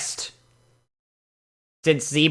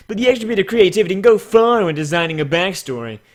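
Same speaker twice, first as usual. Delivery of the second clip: Edgeworth voice; 2 semitones higher than usual. Acted. Reviewer reading a comment in his Edgeworth voice, lightly voiced. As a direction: read the critique like a poised prosecutor. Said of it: "this needs my Edgeworth voice".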